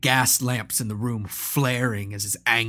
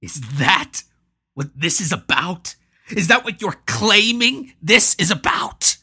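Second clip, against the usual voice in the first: mocking laughter; 9 semitones higher, 9 dB louder than usual. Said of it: "a peal of laughter".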